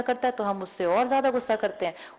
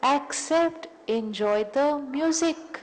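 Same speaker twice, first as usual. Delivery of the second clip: very slow, savouring "enjoy the music"; gentle advice; 5 semitones higher, much slower than usual. Real, not acted. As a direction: let each word linger, inviting. Closing the point, softly drawn. (धीरे, प्यार से सलाह)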